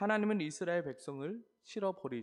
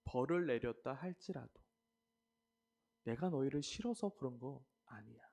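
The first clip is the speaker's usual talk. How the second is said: earnest, swelling appeals that fade to breathless endings; a hint of a heartfelt father's plea; God pleading tenderly; 5 dB louder than usual. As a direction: plead like a hurt, loving father. Preacher voices God pleading.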